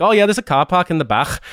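high-pitched Scouse imitation; Liverpool accent. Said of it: "in a, in a Liverpool accent".

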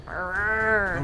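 long growled snarl; intimidating snarl. Acted. Player snarling back at a wolf to intimidate it, snarl. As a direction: growl to scare a beast, at talking volume. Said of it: "I rolled a fifteen on intimidate".

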